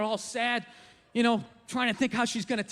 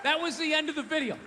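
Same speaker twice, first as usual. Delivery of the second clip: incredulous repeat; 2 semitones higher than usual. Acted. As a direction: repeat it as if you can't believe it. Repeats it in disbelief.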